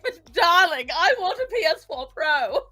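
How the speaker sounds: hammed-up wheedling. Wife begging husband for a PS four Pro, hammed-up wheedling. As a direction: coax like a put-on spoiled wife. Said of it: "I was like".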